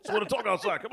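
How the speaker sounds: a hammed-up boyfriend calling through the door; mock coaxing call. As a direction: coax him out the door, loud and high.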